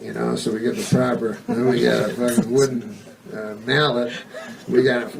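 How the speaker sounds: hushed vampire hunter. Retold or imitated. Hunters planning to stake the vampire, a hushed earnest tone. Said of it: "'cause they go".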